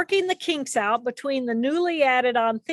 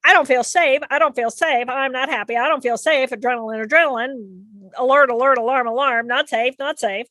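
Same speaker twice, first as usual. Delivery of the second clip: anxious inner voice; 4 dB louder than usual. Acted. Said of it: "My emotional system is going".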